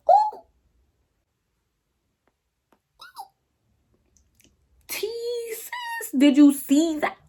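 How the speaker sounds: acted shock. Acts out shock at the slap.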